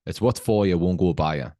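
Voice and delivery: put-on brother's saying in a Northeast English accent. Quoting a brother's favourite saying in a Northeast accent. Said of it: "this is in a Northeast accent".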